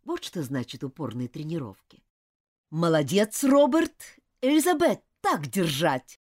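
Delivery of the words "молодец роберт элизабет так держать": calling out encouragement; upbeat coach shouting praise; cheering coach. Acted. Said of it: "подбадривал их мистер Уорлоу".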